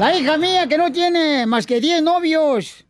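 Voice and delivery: lightly pompous campaign orator; mock politician rallying the crowd; booming balcony speech. Mock candidate speech continues. (discurso de candidato pomposo)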